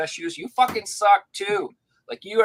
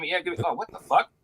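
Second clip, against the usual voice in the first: mock outrage; 5 semitones higher than usual. Dog customer realizing the games are bad, outraged. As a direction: play the fooled customer going from eager to appalled.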